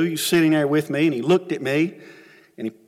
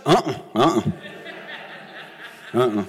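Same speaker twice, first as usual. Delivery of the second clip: put-on child's voice, shaking his head with a laugh; a small boy saying no, giggling; mild childlike refusal; little boy refusing; 4 semitones lower, faster than usual. Boy refusing to touch grill.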